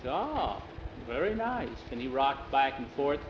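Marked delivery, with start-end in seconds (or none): 0.1-1.7 soft-edged, higher-pitched contentment; pleased. A narrator's reading. Jose settles into the fixed rocker, delighted. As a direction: savour it with a smile. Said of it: "a big smile on his face".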